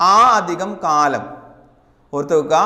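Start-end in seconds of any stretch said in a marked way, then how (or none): 0.1-1.2 slow dictation. Shown as a demonstration. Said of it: "അക്കാലം".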